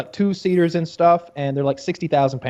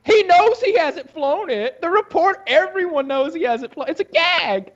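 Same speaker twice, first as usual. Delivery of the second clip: laughing disbelief; 13 semitones higher than usual. Real, not acted. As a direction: insist through giggles. Laughing insistence, much higher.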